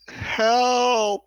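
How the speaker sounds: loud, high drawn-out call for help; hollering down. Acted. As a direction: holler it down to someone far below. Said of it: "I'll kinda holler down".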